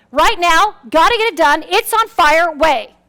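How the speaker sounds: hurried, pressing, everything on fire; fast-talking urgency; urgent rush. Retold or imitated. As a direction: push it like it's burning. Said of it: "go at problems in a very urgent".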